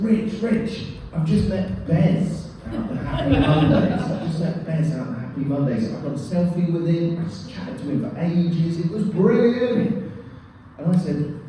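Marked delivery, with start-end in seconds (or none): 0.0-4.0 higher, thrilled retelling of big news; bursting to share it, mock-breathless; buzzing with excitement. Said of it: "the speaker buzzed". 4.0-10.1 faster; buzzing. Retold or imitated. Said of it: "the speaker buzzed".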